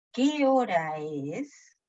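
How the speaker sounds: "¿Qué hora es?" very slow, gliding up and down; question intonation curve. Shown as a demonstration. Teacher repeating the curve for students, slow arched question intonation on "¿Qué hora es?". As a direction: draw out "¿Qué hora es?" in one melodic arch. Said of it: "Se eleva y baja".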